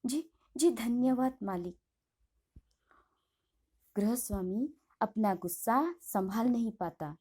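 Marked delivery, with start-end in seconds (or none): 0.1-1.8 trembling voice. Acted. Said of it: "कांपते ही स्वर में कहती है".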